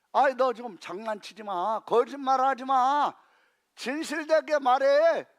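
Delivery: lightly voiced king scolding; a hint of a stern king warning. Preacher voicing the king to Micaiah, mild scolding. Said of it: "이렇게 얘기하는 거예요".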